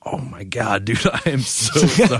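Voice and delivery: high-pitched imitated apology; mock horrified apology. A musician apologizing to the man he smacked, mock horrified.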